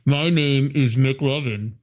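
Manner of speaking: slow pleading fake-adult voice; hammed-up teen asking for alcohol; mock underage voice. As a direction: beg like a kid pretending to be of age. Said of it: "the worst impression of somebody over eighteen".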